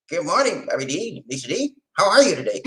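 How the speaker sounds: mild imitation of Lamont's hello. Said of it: "I gotta do my Lamont voice".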